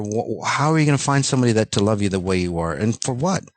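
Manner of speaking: exasperated rant with lively pitch jumps; worked-up rant. Real, not acted. Coach ranting to listeners about loving yourself, exasperated. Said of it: "I'm going on a rant".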